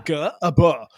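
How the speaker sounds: mock speechless stammer; flummoxed. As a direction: sputter nonsense syllables as if lost for words. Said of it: "I'm flummoxed by this".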